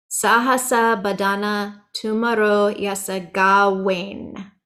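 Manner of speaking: slow recitation, gawain with a V-W blend; V softened toward W. Shown as a demonstration. Teacher reciting an example line, gawain between V and W. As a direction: say gawain's W halfway to a V. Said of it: "cross between a V and a W".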